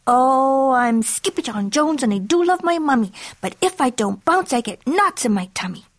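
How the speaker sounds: bouncy kitten. Acted. Kitten bouncing on his bed, chanting playfully. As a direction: lilt the rhyme like a bouncing little kitten.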